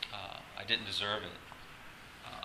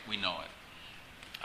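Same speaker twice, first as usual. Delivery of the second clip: soft, slow, breathy repeat of the phrase; quiet repeat; 7 dB quieter, much slower than usual. Shown as a demonstration. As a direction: drop to a slow near-whisper on We know it.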